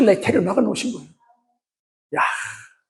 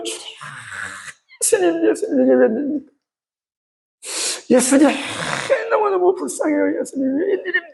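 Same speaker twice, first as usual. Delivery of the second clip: pleading lament; 9 semitones higher than usual. Acted. Weeping women of Jerusalem voiced.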